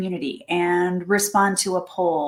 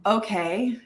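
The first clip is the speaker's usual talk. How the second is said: unimpressed after a bad date. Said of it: "if you're like".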